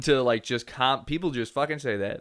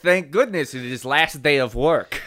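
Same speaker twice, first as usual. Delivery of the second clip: mock Eastern European. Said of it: "guise of the European man".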